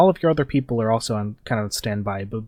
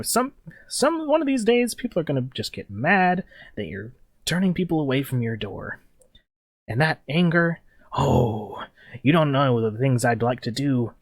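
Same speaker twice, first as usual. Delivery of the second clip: menacing gang leader; 2 semitones higher than usual. Acted. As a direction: warn them sweetly of what's coming. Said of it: "he's like".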